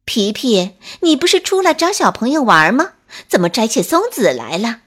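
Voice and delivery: loud, fast call up into the tree; surprised mother squirrel shouting up to her son. Acted. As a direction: catch him in the act. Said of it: "冲在树上摘松子的皮皮喊道".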